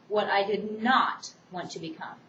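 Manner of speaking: "not" given extra weight in "what I did not want to become"; stress on NOT. Shown as a demonstration. Teacher demonstrating the student's emphasis for the class, weight on "not". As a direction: lean on the word "not". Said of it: "he uses emphasis on the word not".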